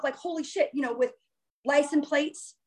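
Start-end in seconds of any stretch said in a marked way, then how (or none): 0.2-0.7 soft, higher-pitched inward exclamation; thinking to oneself. Retold or imitated. Amazed at messages through song choice, thinking to herself. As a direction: drop the volume, as a private thought. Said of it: "I'm just thinking to myself".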